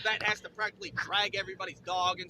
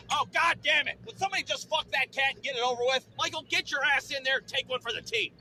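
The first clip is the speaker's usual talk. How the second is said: loud, raised-pitch annoyance; exasperated outburst; 3 semitones higher, 3 dB louder than usual. Acted. Fed-up listener to yowling cat, exasperated outburst. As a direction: burst out, fed up with the noise.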